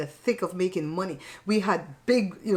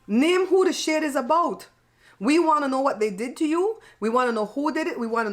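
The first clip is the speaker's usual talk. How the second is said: nosy and worked up; 5 semitones higher than usual. Real, not acted. Nosy demand to know.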